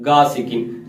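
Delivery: गासिकिन with a thin hard g, like गाफ; thin wrong ghain. Shown as a demonstration. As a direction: demonstrate the mistake, plain g in गासिकिन. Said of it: "अगर बारीक पढ़ेंगे तो क्या बन जाएगा". (गासिकिन में बारीक गाफ जैसी आवाज़)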